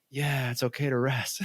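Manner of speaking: brushing it off while pretending to agree; mock agreement. Husband echoing his wife's advice back, soft and dismissive. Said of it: "And I'm like".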